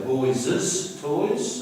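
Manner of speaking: put-on "boys' toys" said wrongly as boyses toys, extra syllable; slow demo of "boys' toys" with an added -es syllable; mock wrong pronunciation, slow; wrong form boyses toys. Shown as a demonstration. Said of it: "we don't say boys' toys".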